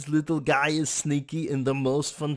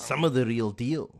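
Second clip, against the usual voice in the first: serious, epic trailer narration; dramatic movie trailer announcer; movie trailer voiceover. Acted. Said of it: "That could be a movie trailer voiceover".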